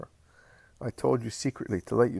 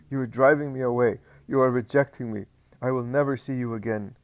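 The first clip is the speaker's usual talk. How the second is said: moaning lament; 3 semitones higher, 4 dB louder than usual. Acted. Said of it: "he moans".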